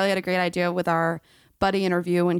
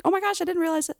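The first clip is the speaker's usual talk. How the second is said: imitating excited cousin; 9 semitones higher, faster than usual. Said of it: "she's like".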